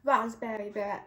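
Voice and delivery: put-on amateur British accent on a colour name; attempted British accent. Vlogger trying out a colour name for viewers, attempted British accent. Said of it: "I have to say it in British".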